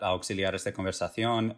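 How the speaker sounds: Spanish pronunciation slipping in naturally; Spanish accent. Real, not acted. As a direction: say it like a native Spanish speaker. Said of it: "ooh, I did the Spanish accent".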